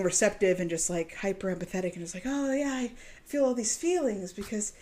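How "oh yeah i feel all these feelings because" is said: gushing mock voice. Mocking a hyper-empathetic person.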